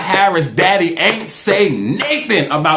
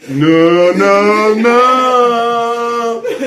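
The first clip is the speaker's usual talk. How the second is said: mock refusal; 3 semitones higher, much slower than usual. Mock refusal drawn out, climbing.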